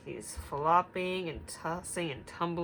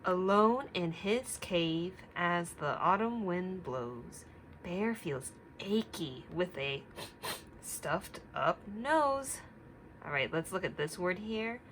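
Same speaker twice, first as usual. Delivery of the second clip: put-on reading to children; slower than usual. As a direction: read it gently to little listeners. Reading story aloud to children.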